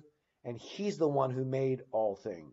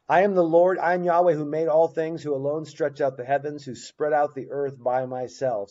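scripture reading; 5 dB louder than usual. Acted. Teacher restarting the Isaiah reading for students, proclaiming. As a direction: open the verse big and let it settle. Rereads Isaiah after interruption.

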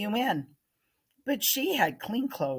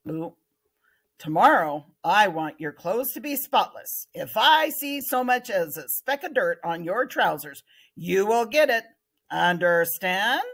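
stern teacher warning; 3 semitones higher, 3 dB louder than usual. Acted. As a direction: lightly warn the class to stay clean.

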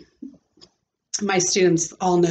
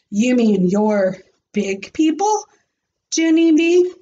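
impressed; 3 semitones higher, 3 dB louder than usual. Acted. Jose impressed.

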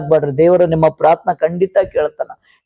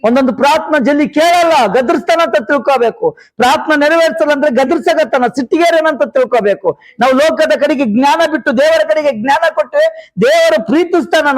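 higher-pitched, urgent exhortation; fervent preaching; 7 semitones higher than usual. Real, not acted. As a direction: preach it insistently to the flock. Preaches with raised voice.

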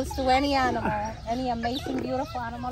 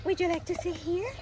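sweet nothings; 2 semitones higher, 6 dB quieter than usual. Real, not acted. Loving words to chimp.

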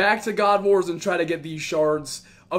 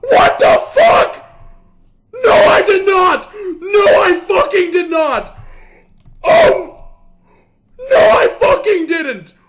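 high, loud shouts of disbelief; ecstatic screaming; 9 semitones higher, 12 dB louder than usual. Real, not acted. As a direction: scream in stunned excitement. Huge rare drop, disbelief.

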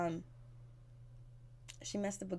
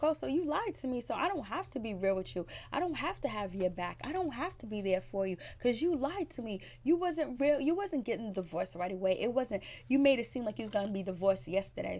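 mock indignant; 3 semitones higher than usual. Rich quoted accusing Anais.

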